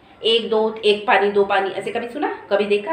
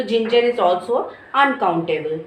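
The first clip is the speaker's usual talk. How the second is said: slow rule statement; much slower than usual. Shown as a demonstration. Teacher stating the rule slowly.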